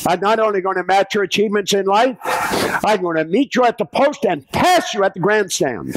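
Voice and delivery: high, ringing declaration of intent; declared boldly. Retold or imitated. Hill reads his bold pledge to Carnegie aloud, proclaiming. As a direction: proclaim it like a vow to the world. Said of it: "Andrew Carnegie".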